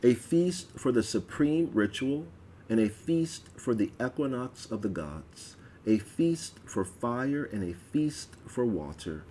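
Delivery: solemn, ringing liturgical reading; ritual proclamation. Acted. Goddess proclaiming the feasts to her people, solemn.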